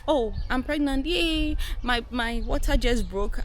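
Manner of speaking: high, bright mock-giddy movie mom; mock movie excitement. Mocking movie cliché, giddy and high. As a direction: ham up the cheerful movie pregnancy. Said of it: "when you watch movies, what do you see".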